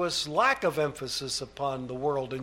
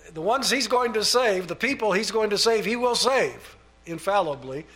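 emphatic preaching; 5 semitones higher, 4 dB louder than usual. Real, not acted. Preacher drives home his point.

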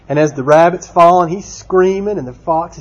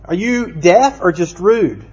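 higher, slow mock indignation; growing frustration; 5 semitones higher, slower than usual. Storyteller's rabbit confronts the tar baby, growing frustration. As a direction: demand it slowly, mildly exasperated. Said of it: "his frustration began to grow".

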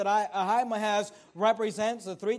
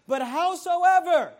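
higher, louder and slow, drawn-out plea; eager plea; 6 semitones higher, 6 dB louder, slower than usual. Acted. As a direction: stretch the word out like a man begging to go. Preacher voices eager Ahimaaz.

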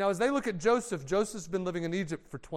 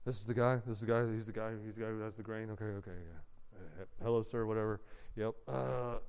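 nervous brothers; 8 semitones lower, 6 dB quieter, faster than usual. Acted. Brothers nervously greet powerful Joseph.

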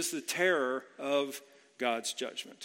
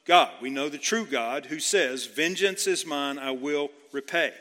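emphatic declaration; 6 dB louder than usual. Retold or imitated. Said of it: "he says".

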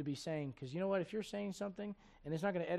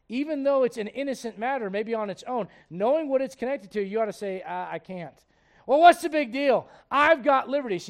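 loud, raised-pitch sermon delivery; forceful preaching; 5 semitones higher, 10 dB louder than usual. Real, not acted. Pastor urging the congregation about conscience and liberty, forceful preaching.

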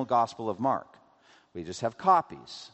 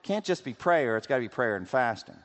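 overzealous monk. Retold or imitated.

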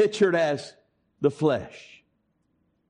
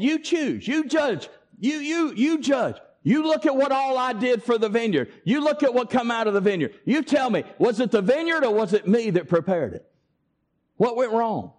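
higher, pleading challenge to judge; God demanding an answer from Israel, higher and urgent; God's challenge; 4 semitones higher than usual. Acted. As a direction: press them to judge, voice rising. Preacher voicing God challenging Israel.

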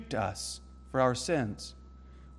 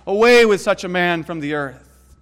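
loud, higher mob cry; crowd shouting; 4 semitones higher, 7 dB louder than usual. Retold or imitated. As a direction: demand it like an angry crowd. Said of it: "And we said".

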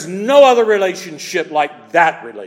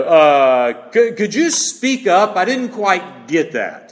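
mealy-mouthed mumble; slower than usual. Retold or imitated. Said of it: "Not a little mealy mouth voice".

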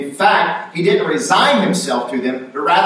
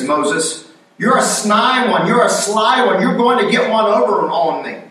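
scoffing Pharaoh; 4 semitones higher than usual. Retold or imitated. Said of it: "a little bit more Matthew Cox terms".

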